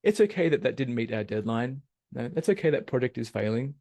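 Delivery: sugary "it's okay" with rage underneath; passive-aggressive. Retold or imitated. Imitating a passive-aggressive coworker, mock sweet. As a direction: fake calm that hides anger. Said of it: "they're just speaking this passive".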